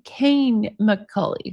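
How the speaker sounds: "Kane McCully" said slowly, Kane like candy cane; name pronunciation. Shown as a demonstration. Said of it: "pronounced like candy cane".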